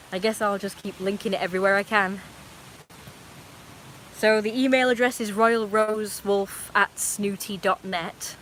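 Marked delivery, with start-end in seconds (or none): 4.2-8.4 slow, even robot voice. Pretend. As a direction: read it out like a robot. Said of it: "I'm gonna say it all in a robot voice".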